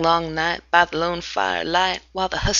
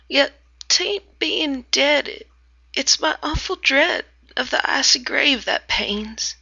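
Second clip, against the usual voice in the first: higher, half-whispered pleading moan; mild moan; 4 semitones higher than usual. Acted. Sam begging his pal, a light moan. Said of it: "says with a sort of moan".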